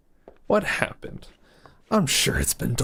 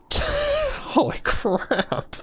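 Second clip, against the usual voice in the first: surprised; much slower than usual. Real, not acted. Shocked by cutscene shooting.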